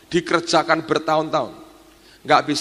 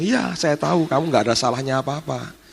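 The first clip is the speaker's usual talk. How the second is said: lightly voiced divine reassurance, near the usual pitch; Tuhan. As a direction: answer the pleading servant as an accepting Lord. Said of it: "Terus Tuhan bilang".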